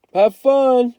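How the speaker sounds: high, loud offhand brush-off; dismissive. A narrator's reading. Byron shrugs off Kenny's plan, dismissive. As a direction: toss it away carelessly.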